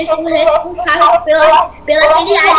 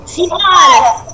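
shout; much slower than usual. Real, not acted. Calling partner to go.

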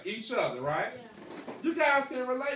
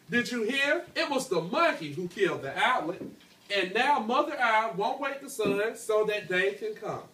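clear, steady storytelling read; reading a story aloud to class. A narrator's reading. Teacher reading the tale to her class, storytelling voice.

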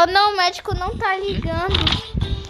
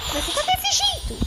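surprised; 12 semitones higher, 3 dB quieter than usual. Pretend. Worried relative visits sick dad.

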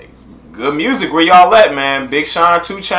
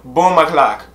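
put-on Jamaican accent. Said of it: "trying to get my Jamaican accent on".

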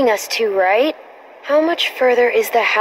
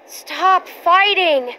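firm plea; 8 semitones higher, much slower than usual. Acted. Breaks up an argument.

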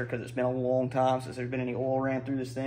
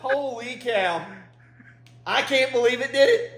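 surprised; 8 semitones higher, 3 dB louder, slower than usual. Real, not acted. Engine fired, amazed.

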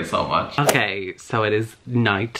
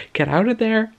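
mock yelling; 11 semitones higher than usual. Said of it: "I'm just like".

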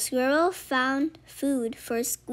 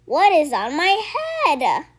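startled question; 5 semitones higher, 11 dB louder than usual. Acted. Fox startled by thing.

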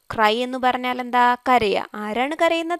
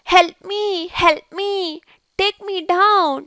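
higher-pitched, lightly acted cry for help; mild plea for help; 6 semitones higher, much slower than usual. Sen begs to be taken down, mildly acted plea. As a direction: plead a little, pitched up, as the stranded character. Trapped ant pleads in story.

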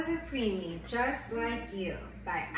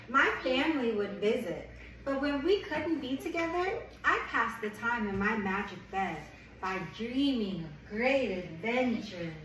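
gentle picture-book read-aloud; reading to a child; 2 semitones lower than usual. Acted. Reads picture book to baby.

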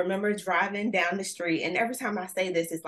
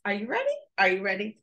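hype call; 3 semitones higher, faster than usual. Real, not acted. Hyping audience.

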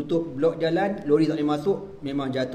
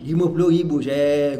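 emphatic; 6 dB louder than usual. Retold or imitated. Stressing the huge sum.

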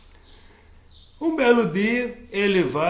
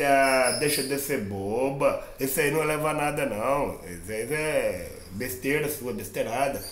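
lightly lower scornful elephant; 4 semitones lower than usual. Acted. Elephant mocking the ant.

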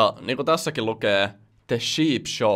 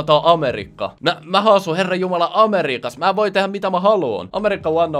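mock entitled American; 6 semitones higher, 5 dB louder than usual. Mocking the American shopper.

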